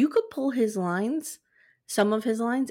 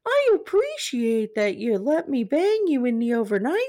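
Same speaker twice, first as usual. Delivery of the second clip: Teddy Ruxpin as Gary; 3 semitones higher, slower than usual. Retold or imitated. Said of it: "What if he started saying Gary's things".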